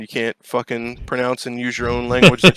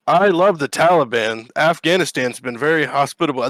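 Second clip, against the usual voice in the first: mock praise; 3 semitones higher than usual. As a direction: gush with mock sincerity. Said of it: "That's not what they're saying".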